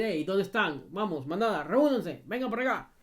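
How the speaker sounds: rally the pack with a half-shouted call; imitated calling out. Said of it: "es gritar y decir". (llamado a la manada, imitando gritos)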